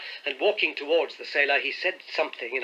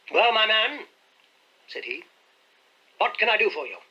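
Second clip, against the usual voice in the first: uneasy gentleman; 7 semitones higher, 3 dB louder than usual. A narrator's reading. Host uneasily greets the sailor.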